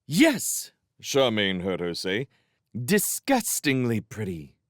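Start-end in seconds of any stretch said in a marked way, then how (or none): 0.0-0.7 high, loud, forced yes; cross. Acted. Sophie stamps, answers crossly. 2.7-4.6 exasperated, grudging compliment; disgusted. Acted. Sophie's cross concession.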